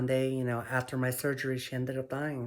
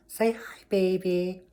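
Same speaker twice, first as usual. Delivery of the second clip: pet talk; 6 semitones higher, 5 dB louder, slower than usual. Real, not acted. Urging her cat to say hi, high baby talk. Coaxing cat to greet camera.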